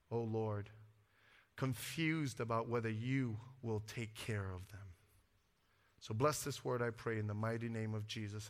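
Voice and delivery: low, softening pastoral prayer; earnest prayer. Real, not acted. Closing prayer before the message.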